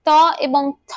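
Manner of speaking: ত and থ said separately, tongue touching the teeth; careful dental sounds. Shown as a demonstration. Teacher showing students tongue placement, ত and থ carefully dental. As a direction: pronounce ত, then aspirated থ, carefully on the teeth. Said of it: "খুব সচেতনভাবে উচ্চারণ করতে গেলে".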